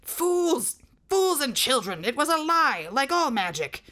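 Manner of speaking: screaming. Acted. Cully screaming at his deserting outlaws, furious loud scream. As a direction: hurl the insult at his fleeing men. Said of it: "Captain Cully screamed".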